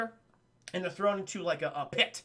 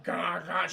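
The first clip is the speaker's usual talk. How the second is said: derpy garbled groan; 2 semitones lower than usual. Retold or imitated. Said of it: "She's all derpy".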